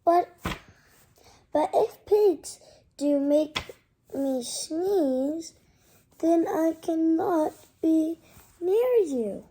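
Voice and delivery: loud, fretful Gerald; a child playing a sad elephant friend; worried elephant voice. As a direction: plead it out loud and slow. Reads Gerald's worried lines.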